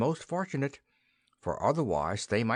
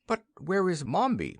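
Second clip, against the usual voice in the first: alarmed king; 9 semitones higher than usual. A narrator's reading.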